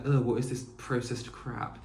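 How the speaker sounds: put-on slightly posh British accent; lightly mocked posh English accent. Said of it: "I did a posh accent just then".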